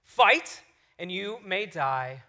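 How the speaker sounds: put-on slow, measured dramatic recital in own accent; rousing line, unhurried, no put-on accent; inspiring speech. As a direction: deliver a battle speech slowly, with weighty pauses. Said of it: "he gives this inspiring speech".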